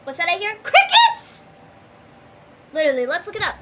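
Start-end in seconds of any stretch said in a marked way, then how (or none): 0.6-1.4 high mocking shout. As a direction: yell it out to mock him. Mocking rhetorical answer.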